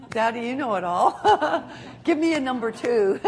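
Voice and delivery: laughing mock request. Laughing mock prayer to God.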